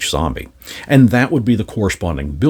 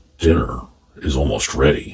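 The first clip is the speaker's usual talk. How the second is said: very deep, low, raspy voice; 7 semitones lower than usual. The Bagman, cooking for the party members, speaks: Bagman's low raspy voice. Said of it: "He speaks in a low and raspy voice".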